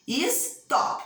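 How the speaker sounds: "Stop" broken into is... TOP; syllable demonstration. Shown as a demonstration. Teacher repeating for pupils to find the strong syllable, syllable demonstration. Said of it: "Qual sílaba fala mais forte?".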